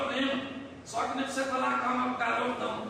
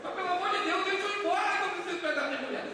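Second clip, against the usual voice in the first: high-pitched, comic exasperation; exasperated outburst; 6 semitones higher than usual. Retold or imitated. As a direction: act out what you are dying to tell her. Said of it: "minha vontade é falar". (desabafo impaciente e cômico, em voz aguda)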